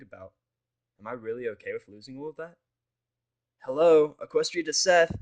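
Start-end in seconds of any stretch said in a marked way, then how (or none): 3.6-5.1 loud, higher call to snap him out; yelling. Acted. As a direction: shout right in his face. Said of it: "Ronald yells in my face".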